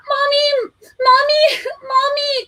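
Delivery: very high crying call; high tearful mommy; crying child. A narrator's reading. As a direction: wail for mommy. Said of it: "cried Richard".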